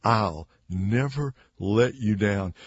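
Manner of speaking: slow, weighty vow, lightly acted; mildly hammed-up solemn promise; boastful Peter. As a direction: pledge it slowly, word by word. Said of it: "he makes some comment".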